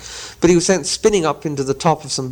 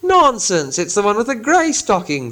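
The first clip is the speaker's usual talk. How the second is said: contradicting troll; 7 semitones higher than usual. Acted. Gandalf faking William's voice, high troll contradiction. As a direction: cut him off. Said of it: "said a voice like William's".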